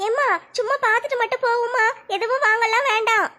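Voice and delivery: lightly voiced teenage daughter; a hint of a shy college girl talking to her mother; young daughter. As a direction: modest daughter, lightly played.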